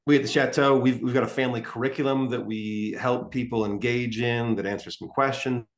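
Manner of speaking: audio cutting out, choppy; broken-up call connection; corrupted glitchy audio. Real, not acted. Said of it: "Your audio is cutting out".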